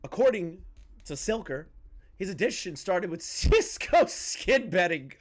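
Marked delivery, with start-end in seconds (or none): 2.2-5.1 high, cracking up mid-sentence; barely suppressed laughter. Real, not acted. Streamer reading about the gambler's addiction, can't keep from laughing. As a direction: try to read it straight and fail. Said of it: "I can't say that without laughing".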